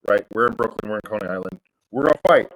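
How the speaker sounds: pumped, rising to a loud finish; psyching himself up for a brawl; ready-to-rumble hype; eager for a fight. Acted. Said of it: "but he's like".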